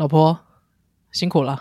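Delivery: charming, low, handsome-sounding voice. Asked to say a line to a wife on someone's behalf: handsome husband voice. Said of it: "用一个我觉得帅的老公的声音".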